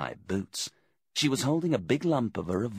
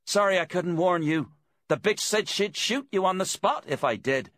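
high, raised apologetic call; captive woman calling out; 12 semitones higher, 4 dB louder than usual. A narrator's reading. Captive calls to her friend from the hut, high and urgent. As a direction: call your apology out from inside, pitched high.

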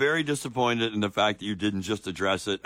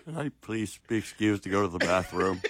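mock meek pleading; 4 semitones lower, 4 dB quieter than usual. Host plays the embarrassed questioner.

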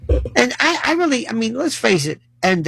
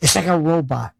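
dismissive; 2 semitones higher than usual. Retold or imitated. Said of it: "I love when people say".

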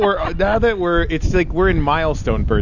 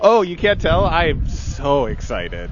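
sarcastic; 2 semitones higher, slower than usual. Real, not acted. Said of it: "why don't you sound excited about that".

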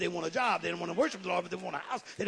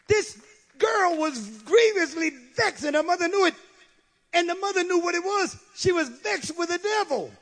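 fervent preaching; 9 semitones higher, 6 dB louder than usual. Acted. Preaching at full force.

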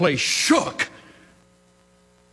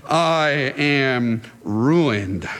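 Isaiah's lament; 5 semitones lower, much slower than usual. Acted.

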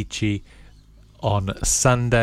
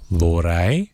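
slow word by word; 3 semitones lower, 3 dB louder than usual. Shown as a demonstration. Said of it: "then I'll say one word at a time slowly".

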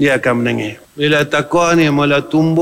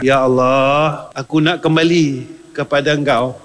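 slow prayer; slower than usual. Acted.

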